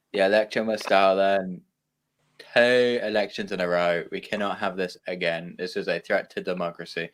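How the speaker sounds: mock Trump lament, barely shifted; Trump impression. Friends laughing at a mild Trump impression. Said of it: "Your impression made me wanna cry".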